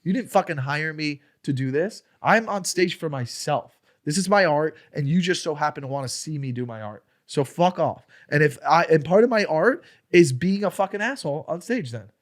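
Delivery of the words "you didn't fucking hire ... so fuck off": retold defiant rant. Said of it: "I was like".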